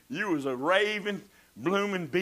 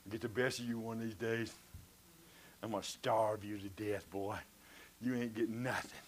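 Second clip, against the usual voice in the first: talking to the mirror; 8 semitones lower, 11 dB quieter than usual. Retold or imitated. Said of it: "I'm saying".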